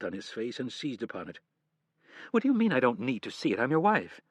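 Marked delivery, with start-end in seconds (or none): 2.3-4.2 indignant. Acted. Wife confronting evasive husband.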